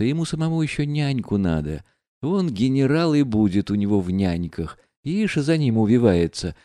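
lightly voiced proud, mocking woman; bitter, taunting the men around her; Nastasya Filippovna. Настасья Филипповна прощается со всеми. (слегка сыгранная гордая, насмешливая героиня)

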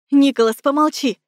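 loud angry snap at a whining friend; snapping. A narrator's reading. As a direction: shut him up, sharply. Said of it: "рявкнула я".

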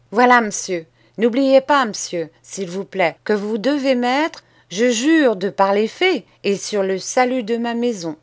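put-on a boy laying out terms, steady and sure; bold schoolboy. Boy reminds master of oath wording.

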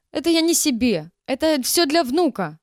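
loud, high defensive shout. A narrator's reading. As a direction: yell the excuse at the manager. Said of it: "закричала".

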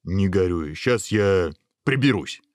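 gentle encouragement, lightly done; mildly reassuring host; consoling ogre. Acted. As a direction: cheer up a sad guest. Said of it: "стал утешать принца людоед".

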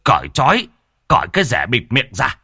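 commanding, rising rebuke; stern angry order. Acted. Village chief orders the crowd to untie Hồng, angry. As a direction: shut the mob down with authority. Cả Hải stops the mob.

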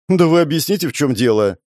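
petulant, irritated demand; capricious anger. A narrator's reading. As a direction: snap at them like a spoilt child. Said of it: "капризно рассердилась женщина".

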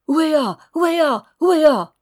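high, loud dog-like yelps; little dog yapping. A narrator's reading. Faithful little dog running after the carriage, yapping hard. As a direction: yap out the cry at full force. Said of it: "en jappant de toutes ses forces".

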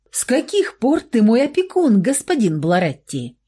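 возмущённый вопрос на повышенных тонах; с вызовом, выше обычного голоса; гневно. A narrator's reading. Гневно допрашивает Михаила. (возмущённо)

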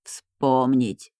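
low, slow voice of a spirit from the abyss; hoarse otherworldly voice. Acted. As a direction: drag it out, rasping, from beyond. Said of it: "дух почему-то произнёс".

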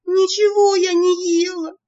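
высокий громкий визг со слезами; взвизгни, почти плача; взвизгнув чуть не плача. A narrator's reading. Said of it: "взвизгнула я, чуть не плача". (громко, высоко, сквозь слёзы взвизгивает)

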